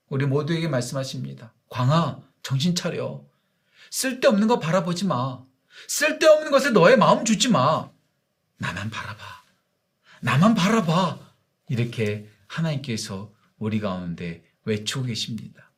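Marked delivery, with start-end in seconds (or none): 1.7-11.2 tender then rising personal plea; God speaking personally. Acted. God speaking to the pastor by name: pleading call. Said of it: "저에게 말씀하십니다".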